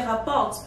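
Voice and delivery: "rapporte" said without the final e-n-t; pronunciation demo. Shown as a demonstration. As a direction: say "rapporte" ending on the r sound, no ent. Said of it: "You don't pronounce the E N T".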